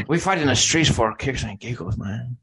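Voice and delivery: hammed-up Spanish accent that comes out Cuban; Cuban-sounding attempt at a Spaniard; mock Spanish accent. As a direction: put on a bad Spanish accent. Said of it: "Hey, you sound Cuban".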